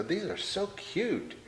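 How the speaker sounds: high, slow, gushing camp voice; flamboyant gushing. Retold or imitated. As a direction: coo it like a flamboyant friend. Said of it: "grab a woman's breast and go".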